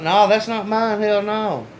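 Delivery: wysokie, głośne zaprzeczenie. Retold or imitated. Denying the bag to cop.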